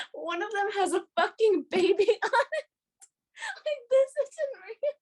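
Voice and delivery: high-pitched, rising incredulity; incredulous disbelief. Retold or imitated. Fan baffled by what Kim is doing, incredulous high voice. Retold stunned disbelief at the pageant.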